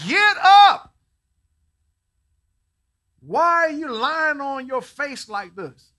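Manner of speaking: high, very loud, slow rebuke; booming command. Retold or imitated. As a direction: thunder it down as God. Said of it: "the Lord said to Joshua".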